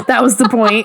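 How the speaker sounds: said through a laugh. Real, not acted. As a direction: chuckle while speaking. Laughing at friend's story.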